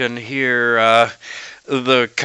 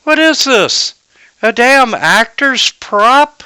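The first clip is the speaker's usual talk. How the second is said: high-pitched, incredulous demand; scolding merchant; 13 semitones higher, 5 dB louder than usual. Acted. Merchant confronting hired guards with the sword, high incredulous scolding. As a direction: act an outraged merchant, pitched well up. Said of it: "the merchant picks up the sword, and he's like".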